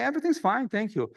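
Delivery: awkward forced cheer. Retold or imitated. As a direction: cover the awkwardness with a sunny tone. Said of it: "kind of awkward moment".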